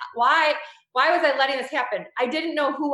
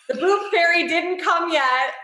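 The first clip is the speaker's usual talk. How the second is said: higher, slow and laughing through it; a mock-mournful kid's complaint, giggling; playful lament; 6 semitones higher, 4 dB louder, slower than usual. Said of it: "I would always look down and be like".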